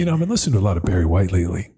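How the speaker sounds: smooth ladies' man croon. Pretend. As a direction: play the late-night lover. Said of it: "the ladies' man hour".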